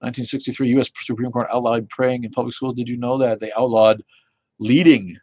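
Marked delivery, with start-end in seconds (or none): none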